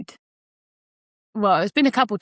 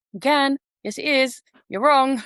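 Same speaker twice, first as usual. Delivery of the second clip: higher-pitched contradicting voice; inner voice talking back; 6 semitones higher than usual. Acted. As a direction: contradict in short, high-pitched retorts. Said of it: "that voice just goes".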